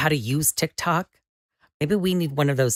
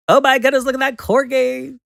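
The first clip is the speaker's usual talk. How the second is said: high, loud cooing over a cute dog; excited squeal; gushing delight; 7 semitones higher, 7 dB louder than usual. Real, not acted. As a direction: melt over a corgi. Sees a corgi.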